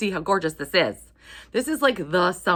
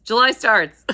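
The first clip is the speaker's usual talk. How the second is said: sudden louder exclamation, catching the slip; excited correction; 6 semitones higher, 11 dB louder, slower than usual. Real, not acted. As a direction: blurt it out as you finally get it right. Correcting herself about the month.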